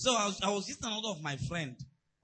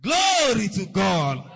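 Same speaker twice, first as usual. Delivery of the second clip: joyful shout; 3 semitones higher, 13 dB louder, much slower than usual. Real, not acted. Pastor exults over his own story.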